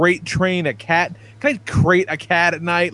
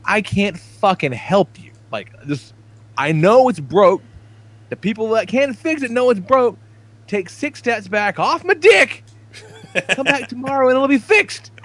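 exasperated retort; 7 semitones higher than usual. Retold or imitated. Acts out exasperated reply to coworkers.

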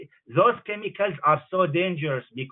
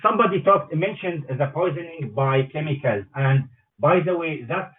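speakerphone. Real, not acted. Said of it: "that's why you sound so far away".

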